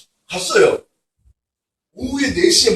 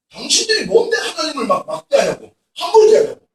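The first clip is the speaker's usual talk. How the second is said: mock scolding; 5 semitones higher than usual. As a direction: re-enact the scolding with a half laugh. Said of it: "소리치고 야단치고". (설교를 흉내 내며 살짝 웃는 꾸짖음)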